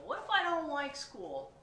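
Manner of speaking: high, loud fretting; worried pigeon. Acted. Pigeon frets about school, worried and high. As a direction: fret like an anxious child.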